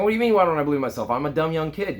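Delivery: imitating his younger self, high and fast at first; retold incredulous protest. Young son answering dad's belief in him, incredulous high protest.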